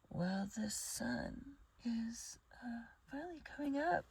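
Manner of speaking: groggy just-woke-up voice; sleepy rough morning voice. Real, not acted. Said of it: "Excuse my morning voice".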